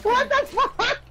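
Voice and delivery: laughing. Real, not acted. Laughing shock in game.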